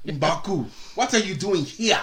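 put-on African accent. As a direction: do a playful African-accented character. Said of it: "when I do the African voice".

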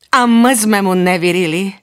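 ordinary delivery, nothing marked

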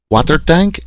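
put-on high, loud French-accented outburst; exclaiming French biologist. A narrator's reading. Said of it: "exclaimed the little biologist Leroy".

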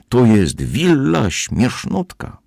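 wysokie, przeciągłe obwieszczenie; zawołaj wysoko i powoli, rozciągając słowa; wrzask. A narrator's reading. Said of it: "wrzasnęła". (radosne wołanie dziewczynki)

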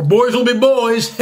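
slow, laughing through the phrase; half-laughing cliché; laughing mock quote. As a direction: chuckle out boys will be boys.

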